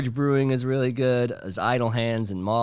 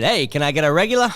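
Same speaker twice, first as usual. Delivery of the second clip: mock customer; 8 semitones higher, 9 dB louder, faster than usual. Ordering at Dunkin'.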